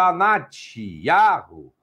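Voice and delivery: "Anatiarro" bem lento, sílaba por sílaba; nome soletrado devagar. Shown as a demonstration. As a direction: diz "Anatiarro" como "A-na-ti-a-rro", devagar. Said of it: "Olha o nome dela aqui". ("Anatiarro" pronunciado pausadamente)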